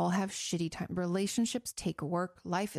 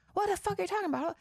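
much higher, fast mock outburst; imitating an aggressive husband; 12 semitones higher, faster than usual. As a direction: snap it out like a husband who's been provoked. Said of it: "if he comes at you aggressively".

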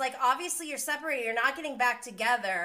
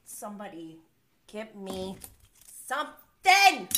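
exasperated plea; 2 semitones lower, 4 dB louder than usual. Real, not acted. Host overwhelmed by the drama, exasperated plea. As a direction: beg loudly, stretching the word. Pleading for something, fed up.

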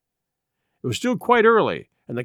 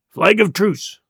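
mildly raised call to the other side; crying out; 3 semitones higher, slower than usual. A narrator's reading. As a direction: call it out, without a full shout. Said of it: "cried Silver".

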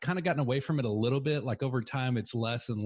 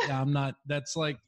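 incredulous retort; 6 semitones higher than usual. Retold or imitated. Retold protest to Australian coaches.

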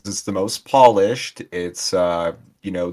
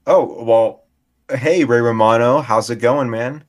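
hammed-up bit voice; 5 semitones higher, 6 dB louder than usual. Improvised Ray Romano role-play.

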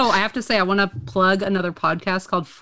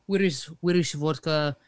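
put-on halting Russian accent. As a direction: search for words in a Russian accent. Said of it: "with a Russian accent".

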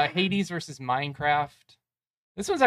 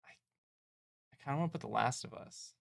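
hushed guilty whisper; 10 dB quieter, faster than usual. Real, not acted. Admitting a pick against the friend's favorite in a whisper. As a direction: confess the pick under the breath.

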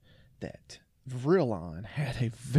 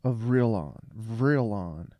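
put-on British accent; 4 dB louder than usual. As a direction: read it like a pompous British spaceman. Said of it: "In a British accent".

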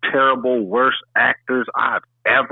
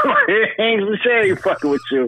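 laughing; 5 semitones higher than usual. Real, not acted. Speaks through laughter.

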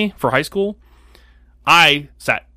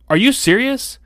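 put-on incredulous girl; 9 semitones higher than usual. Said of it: "she goes".

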